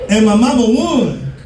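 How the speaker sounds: ordinary delivery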